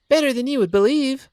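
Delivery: best friend venting her panic after racing over; Kathy relieved and shaken. Acted. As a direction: vent the fright, then settle.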